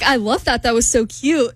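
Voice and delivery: lightly imitated British man; bad British accent. Woman quoting her date's delight, bad British accent. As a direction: quote him in an amateur British accent. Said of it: "You have a terrible British accent".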